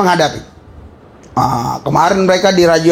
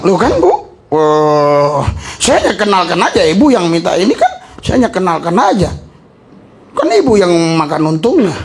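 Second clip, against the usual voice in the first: laughing excuse; 2 semitones lower than usual. Retold or imitated. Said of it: "Anda akan bilang".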